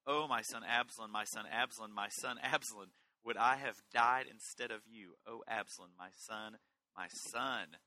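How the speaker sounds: a touch of anguished lament; heartache. Acted. Preacher reads David mourning his son Absalom, heartache. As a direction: cry out for a lost son, repeating the plea. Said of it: "you feel a heartache in that".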